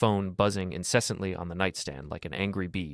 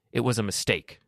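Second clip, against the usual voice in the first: voice cracking; 3 semitones higher than usual. Acted. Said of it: "her voice cracked".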